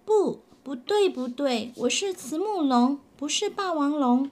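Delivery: 大声坚持; upset insisting. Acted. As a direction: shout him down like a hurt kid. Child insists loudly.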